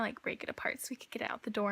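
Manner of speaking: condescending whisper. Retold or imitated. Stepmoms dismissing her worries about the cabinets, patronizing whisper. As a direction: talk down to her in a breathy hush. Stepmoms explaining breaking furniture.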